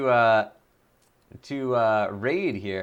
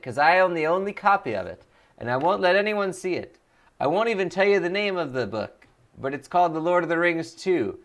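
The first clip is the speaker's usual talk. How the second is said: lightly raised goofy character voice; Voice of Nick; 3 semitones higher than usual. Acted. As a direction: keep the silly character going, a bit higher. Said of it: "Voice of Nick voice".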